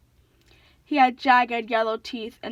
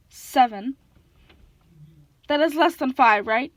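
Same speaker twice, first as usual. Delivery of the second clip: dim monster; 5 dB louder than usual. A narrator's reading. Dim Cyclops confused.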